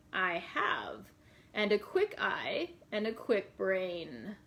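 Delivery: put-on slow, whispered old gypsy woman. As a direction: breathe it like a sly old fortune teller. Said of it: "I'm gonna try to do a little bit of a gypsy voice".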